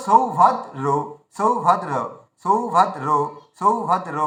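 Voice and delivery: সৌভদ্র broken into beats, a stop before the last syllable; slight pauses. Shown as a demonstration. Teacher models for learners, সৌভদ্র said piece by piece. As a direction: pause a little inside সৌভদ্র. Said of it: "একটু থেমে যেতে হবে".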